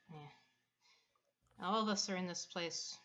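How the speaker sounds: sighing, then quietly resigned; soft, subdued voice after a breathy sigh; Quinn. Acted. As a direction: let it out on a sigh and speak softly. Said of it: "And Quinn sighs, and she's like".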